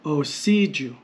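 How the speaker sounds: "Osiju" with stressed middle "si". Shown as a demonstration. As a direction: land firmly on "si" in "Osiju". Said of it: "we have the extended transliteration".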